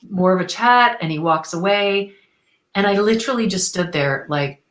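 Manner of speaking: ordinary delivery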